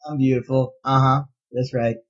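low, smug, self-admiring; preening dragon. Retold or imitated. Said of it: "kinda have this preening look about him".

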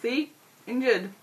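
high whining complaint; whiny injured gnome. Acted. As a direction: whine like a wounded baby.

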